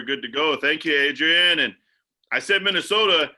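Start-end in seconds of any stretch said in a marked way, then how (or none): 2.3-3.3 embarrassed realization. Real, not acted. Realizes he named the wrong state.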